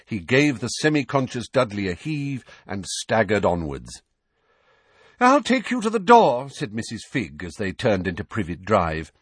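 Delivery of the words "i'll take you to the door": put-on high, fussy old woman; flustered old neighbour, high and fretful. A narrator's reading. Mrs Figg voiced.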